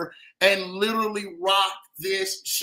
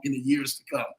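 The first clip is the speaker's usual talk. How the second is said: whispering; 7 semitones lower, faster than usual. Real, not acted. Trails into a whisper.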